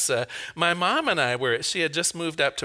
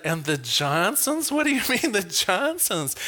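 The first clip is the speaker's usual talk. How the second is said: retold surprise; 2 semitones higher than usual. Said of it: "And then I said".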